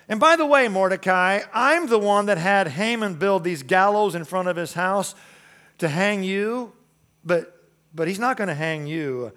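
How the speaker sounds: preacher voicing God's news to Mordecai; God speaking. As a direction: play God's eager aside to Mordecai. Preacher voices God again.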